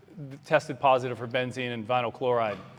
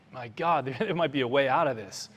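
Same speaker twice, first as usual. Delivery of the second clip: hopeful realization. Retold or imitated. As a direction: let the escape idea break through with a small laugh. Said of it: "you could see in his eyes".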